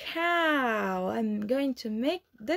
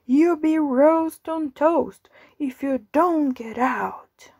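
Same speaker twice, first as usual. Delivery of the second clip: higher, louder angry cook's shout; 4 semitones higher, 5 dB louder than usual. Acted. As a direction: bark at the animals like a furious cook. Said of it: "Along comes the cook with an angry shout".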